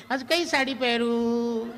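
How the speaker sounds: high, slow mock call of a wife from the next room; calling from bedroom. Wife calls from the bedroom to husband shaving, mock call. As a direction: sing out the question like a wife calling. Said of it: "બેડરૂમમાંથી બૂમ પાડે".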